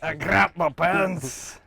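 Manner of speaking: slow, put-on Irish accent. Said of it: "You sound, like, Irish".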